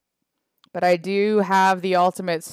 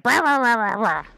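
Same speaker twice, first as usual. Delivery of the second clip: a light mock growl of rah rah; mock wrestler growl; 4 semitones higher than usual. Streamer imitates wrestler grabbing ropes, light mock growl. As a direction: imitate her grunting rah's half-jokingly. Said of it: "that's exactly how she sounds".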